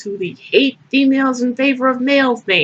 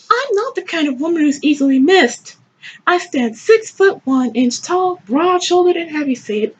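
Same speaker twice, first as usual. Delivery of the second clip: proud heroine, higher pitch; higher-pitched, declaimed self-description; performed story reading; 6 semitones higher than usual. Acted. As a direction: read it as a self-satisfied narrator, higher.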